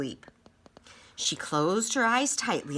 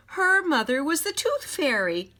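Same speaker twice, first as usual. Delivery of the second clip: thrilled reveal; 10 semitones higher, 5 dB louder than usual. A narrator's reading. Story's big reveal.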